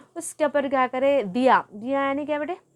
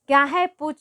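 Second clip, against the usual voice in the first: higher and louder, the grandmother saying "go on, ask"; a raised old-woman voice prompting the child; grandmother's reply; 4 semitones higher, 6 dB louder than usual. Acted. Grandmother tells the boy, louder and higher, to ask. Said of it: "दादी माँ बोले".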